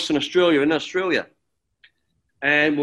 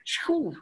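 sharp mimed exhale of relief; high, soft "phew" after a close call; relieved phew; 10 semitones higher, 6 dB quieter than usual. Retold or imitated. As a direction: blow out a retold sigh of relief. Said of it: "he went".

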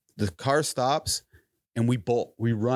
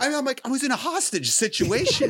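laughing while telling; 12 semitones higher than usual. Retold or imitated. Laughing retelling.

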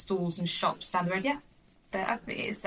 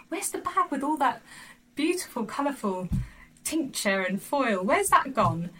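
put-on toddler voice; 5 semitones higher than usual.

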